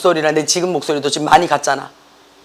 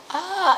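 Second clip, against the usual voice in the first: thin, soft "ah"; failing vocal cords; 12 semitones higher, 10 dB quieter than usual. Shown as a demonstration. Teacher showing cords that will not close, weak soft "ah". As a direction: let a weak "ah" escape without full closure. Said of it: "나는 지금".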